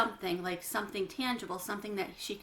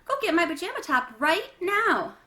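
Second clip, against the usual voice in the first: loud, high, bossy order; angry demand; 8 semitones higher, 7 dB louder than usual. Acted. Janie ordering Bat to fetch her top, loud and bossy. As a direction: order him around, furious.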